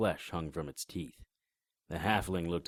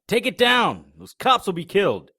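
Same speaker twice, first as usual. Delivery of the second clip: louder, much higher yell; frantic shout; 12 semitones higher, 12 dB louder than usual. Acted. Begging his partner to drop the barrier to save the cops, frantic yell. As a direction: beg her, panicking for the cops.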